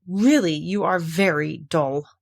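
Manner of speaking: slow, a touch of scorn; understated irritation; mild annoyance. Acted. Mock Turtle scolding Alice, mildly cross. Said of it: "said the Mock Turtle angrily".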